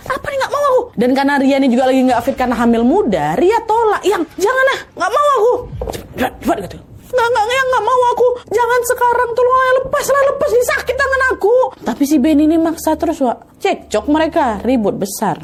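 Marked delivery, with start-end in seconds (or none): 0.1-11.6 very high, panicked crying protest; wife fighting off her husband; terrified refusal. Retold or imitated. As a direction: struggle free, begging him to let go. Wife resisting forced husband.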